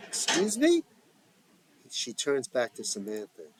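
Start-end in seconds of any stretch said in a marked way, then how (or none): 0.1-0.8 much higher, louder indignant surprise; offended, as if she misheard; taken aback. A narrator's reading. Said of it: "taken aback".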